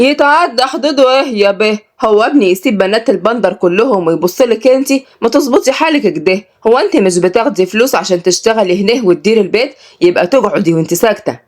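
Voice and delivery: put-on scolding old woman. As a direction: scold the girl like an old village lady. Mervat scolding Salma.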